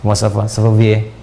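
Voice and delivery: low-pitched imitation French; French accent. Shown as a demonstration. Preacher showing off language mimicry to listeners, French accent. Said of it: "Kayak orang Prancis".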